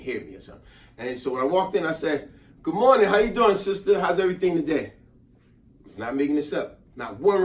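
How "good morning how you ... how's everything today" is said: a little louder. Retold or imitated. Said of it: "maybe I said a little louder".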